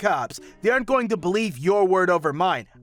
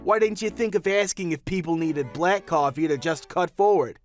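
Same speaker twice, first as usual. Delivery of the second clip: angry rant; 3 semitones higher than usual. Acted. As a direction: berate her like an impatient businessman. Businessman rants at barista.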